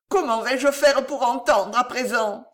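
acted plaintive despair; lamenting. A narrator's reading. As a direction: bewail your fate helplessly. Mutilated nephew laments his lost ears.

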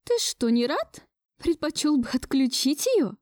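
grandmother's accusing question with a hint of sobbing; starting to sob. A narrator's reading. Grandmother accusing her grandson, starting to whimper. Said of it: "Тут же начала всхлипывать она".

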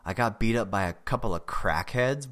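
ordinary delivery, nothing marked

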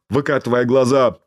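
ordinary delivery

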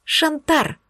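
выше и светло, нарочито сияя; невинно просиять, дразня; лучезарно. Acted. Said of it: "лучезарно просияла я". (героиня дразнит демона лучезарным тоном)

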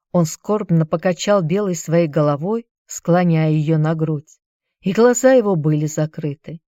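plain reading voice

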